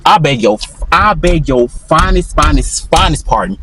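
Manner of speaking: slow, lightly voiced line from a friend; quoting Will. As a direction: drag out the finest pardon like Will does. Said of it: "Like what my boy Will say".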